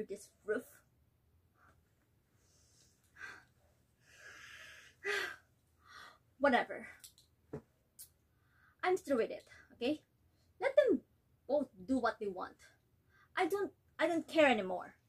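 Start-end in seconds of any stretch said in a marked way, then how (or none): 6.4-15.0 tragic heroine sorrow. Acted. Nella gives up, praises other daughter.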